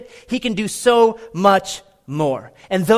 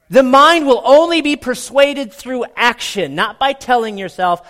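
emphatic preaching; 4 semitones higher, 5 dB louder than usual. Real, not acted.

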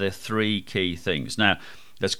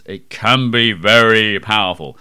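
louder, slow and weighty; powerful voice; 8 dB louder, slower than usual. Shown as a demonstration. Podcast host showing voice power, slow and loud. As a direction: land it with power. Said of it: "Use your voice".

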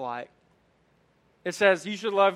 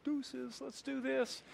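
mock eager exit; 7 semitones higher, 13 dB quieter, slower than usual. Leaving counseling jokingly.

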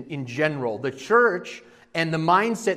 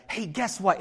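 higher, put-on eager announcement; acting all excited; 5 semitones higher than usual. Preacher coming in to tease Anika, mock excitement. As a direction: make small news sound like big news. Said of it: "I'll act all excited".

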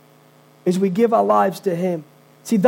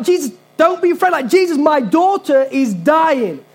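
higher, fast, frantic plea to Jesus; panicked plea; 4 semitones higher than usual. Retold or imitated. Father panicking to Jesus about his dying daughter, frantic. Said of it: "I would be freaking out".

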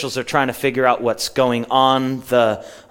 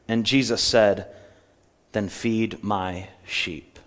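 slow, deliberate Bible reading with weighted pauses; measured pulpit reading; solemn scripture reading; slower than usual. Acted. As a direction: read the passage aloud slowly, letting each phrase land. Reads Scripture aloud.

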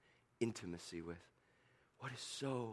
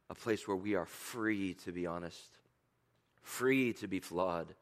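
prayer. Acted. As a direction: pray slowly for the room. Closing prayer.

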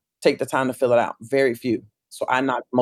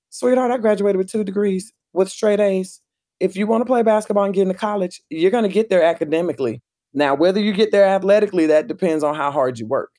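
higher-pitched voice of a mom; encouraging mom; 6 semitones higher than usual. Retold or imitated. Mom telling her kid how to reach college, instructive. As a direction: imitate mom laying down the terms. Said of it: "And she would be like".

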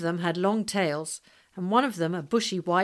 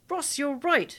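excited cry; 9 semitones higher, slower than usual. A narrator's reading. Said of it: "she cried".

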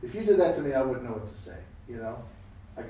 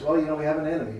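mock standard answer; much faster than usual. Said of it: "here's the standard answer".

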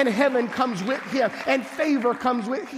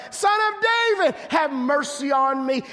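higher, louder desperate call; a blind beggar shouting louder over the crowd; crying out louder; 3 semitones higher, 4 dB louder than usual. Acted. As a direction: call out again over people hushing you. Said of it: "He cried even the louder".

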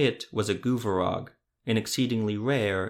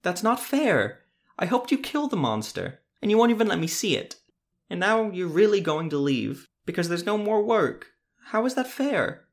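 much higher and louder, on the edge of tears; tearful outburst; 10 semitones higher, 4 dB louder than usual. A narrator's reading. Crying boy protesting to the witcher, high and loud. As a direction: wail it like a wronged child. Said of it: "Tears once again sprang into Remy's eyes".

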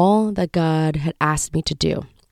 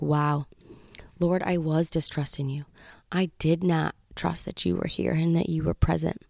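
humbled realization; 8 dB quieter than usual. Retold or imitated. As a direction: admit it quietly, struck. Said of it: "where I was like".

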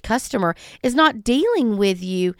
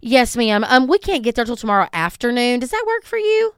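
breezy receptionist; 2 semitones higher than usual. Pretend. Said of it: "your girl goes".

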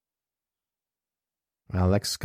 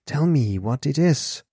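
higher-pitched urgent plea; begging; 6 semitones higher than usual. Acted. Alex pressing a suffering Elisa, pleading. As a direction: beg with a rising, anxious lilt. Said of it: "he begged".

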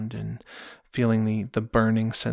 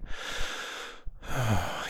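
deep sigh; 6 dB quieter than usual. A narrator's reading. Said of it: "takes a few deep breaths".

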